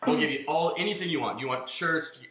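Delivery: imitating Rich. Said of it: "Surely Rich has come to you".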